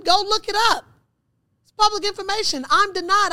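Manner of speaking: high, loud exasperated outburst; retold upset insistence. Daughter telling her father to look it up, retold exasperated insistence.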